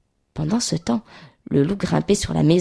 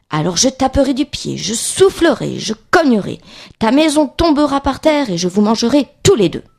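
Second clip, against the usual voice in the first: higher-pitched storybook threat, mounting in a list; threatening wolf; 4 semitones higher than usual. Acted. Wolf warns the pig he will blow the house down, threatening. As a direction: threaten as a lightly voiced wolf.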